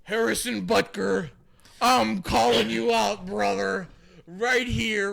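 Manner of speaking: hyped trash-talk challenge; wrestling callout promo. Pretend. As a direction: call him out like a pro wrestler. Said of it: "How's that?".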